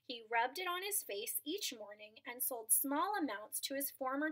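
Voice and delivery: storybook narration for a class; read-aloud storyteller voice; reading to children. A narrator's reading. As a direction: tell the tale to the children. Reads a picture book aloud.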